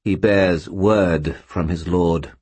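slow, cold disdainful spirit; contemptuous skull voice. Acted. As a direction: drawl it with cool contempt. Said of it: "a vague contempt in its voice".

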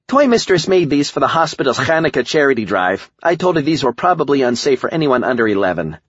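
high-pitched voice of a story sidekick; Cindy explaining herself. A narrator's reading. Cindy tells the narrator about the charity toys, high character voice.

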